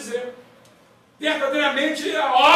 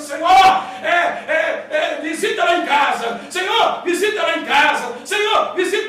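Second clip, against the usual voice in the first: mock repetitive prayer; 3 dB louder than usual. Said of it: "aquele crente que fica assim".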